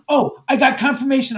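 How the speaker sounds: a hammed-up excited yelp; mock a giddy ghost hunter's outburst; imitating an overexcited ghost hunter; mock excitement.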